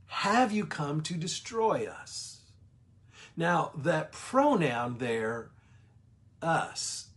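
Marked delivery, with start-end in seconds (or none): 0.1-2.4 higher, slow, dramatic demon question; demon's question. Retold or imitated. Demon asking Jesus if he'll destroy them, higher and slow. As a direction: press him with dread. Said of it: "And he says".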